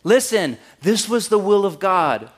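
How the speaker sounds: loud, high mock preacher voice; mocking pundit. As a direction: ham up a self-righteous TV pundit. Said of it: "comes on national television ... and says".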